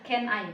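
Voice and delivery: "Can I" run together as one word, said firmly and loud; "Can I" linked into a single unit. Shown as a demonstration. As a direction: join "Can I" with no gap between the words. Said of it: "diucapkannya disambungin gitu loh, nggak dipisah".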